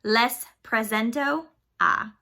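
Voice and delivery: Les presento a drawn out slowly; slow, careful model phrase. Shown as a demonstration. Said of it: "Without the accent".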